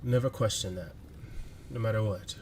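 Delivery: lightly voiced loving letter-writer; Damien's voice. Damien confessing love to a sleeping partner in a letter, heartfelt. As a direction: read it as a tender, halting love letter with long pauses. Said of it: "you hear Damien's voice".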